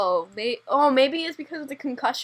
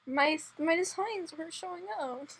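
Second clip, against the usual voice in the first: whiny, quieter, mock sad; 5 semitones higher, 11 dB quieter than usual. Real, not acted. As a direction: lament it with a laugh. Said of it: "You sound so sad".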